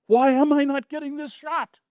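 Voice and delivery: high-pitched, loud mock screech; hammed-up screaming complaint; imitated scream. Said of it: "she screamed at me".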